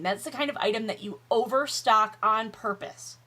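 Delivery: ordinary talk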